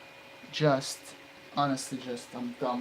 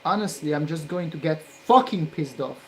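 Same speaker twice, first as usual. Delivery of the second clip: angry; 5 dB louder than usual. Real, not acted. Continued frustration.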